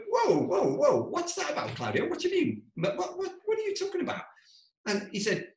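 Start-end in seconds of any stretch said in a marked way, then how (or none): 0.1-4.2 high, panicked rapid-fire questions; alarmed disbelief. Retold or imitated. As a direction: squeak out the alarm at your friend. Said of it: "I went".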